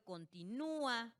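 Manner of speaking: continúa slowed, with a long stressed Ú apart from the a; hiatus example. Shown as a demonstration. Teacher giving examples of the fourth rule, slow hiatus. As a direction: stretch the nú of continúa. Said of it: "Por ejemplo".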